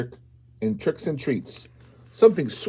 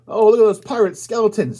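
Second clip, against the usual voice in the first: spooky excitement; 9 semitones higher, 7 dB louder than usual. Acted. Spooky pirate skeletons appear.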